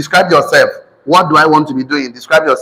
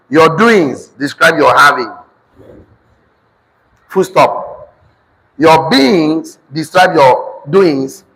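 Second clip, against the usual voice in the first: slow, deliberate dictation; dictation to class; much slower than usual. Real, not acted. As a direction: spell it out slowly for note-takers.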